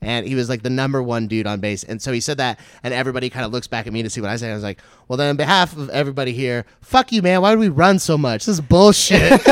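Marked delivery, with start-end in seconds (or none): 5.1-9.4 loud, high, indignant comic shout; mock outrage. Comic retelling his protest to the top officer, mock-outraged shouting. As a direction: build to a yelled protest. Retells heckling the base commander.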